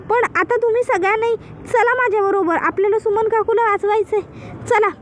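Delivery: high-pitched, stammering pretend panic; put-on breathless urgency; faking breathlessness. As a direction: stutter the name as if out of breath, then urge them on. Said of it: "धाप लागल्याचं नाटक करते".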